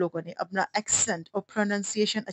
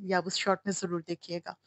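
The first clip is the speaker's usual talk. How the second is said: whisper; 8 dB quieter than usual. Real, not acted. Teasing viewers to watch short.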